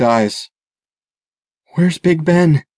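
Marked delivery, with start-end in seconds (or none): 1.7-2.6 higher-pitched, urgent imploring question. A narrator's reading. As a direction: implore someone to act. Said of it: "imploring him to defend himself".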